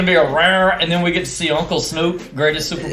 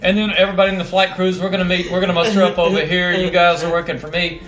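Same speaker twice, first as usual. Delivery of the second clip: officer voice; 3 semitones higher than usual. Retold or imitated. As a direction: play a colonel herding the crew. Impersonates colonel giving orders.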